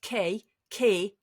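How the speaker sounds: Kay with a Geordie vowel. Retold or imitated. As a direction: say Kay as a Newcastle speaker does. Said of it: "she says Kay".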